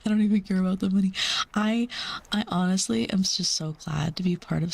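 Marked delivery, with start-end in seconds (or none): 0.0-1.1 laughing through the repeat, fast. Real, not acted. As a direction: giggle the line out quickly.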